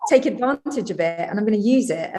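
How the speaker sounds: acted-out empowered resolve; confident declaration. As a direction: speak up as someone seizing their moment. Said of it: "that kind of strength and confidence".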